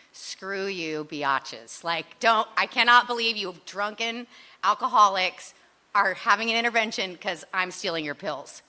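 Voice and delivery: loud indignant retort; defiant outburst. Retold or imitated. Lisa snaps back at the friends staging her intervention, loud and indignant. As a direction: throw it back at them, outraged.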